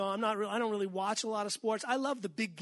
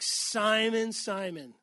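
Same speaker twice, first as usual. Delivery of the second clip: a little frustrated; 4 dB louder, much slower than usual. Retold or imitated. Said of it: "I think Jesus was a little frustrated".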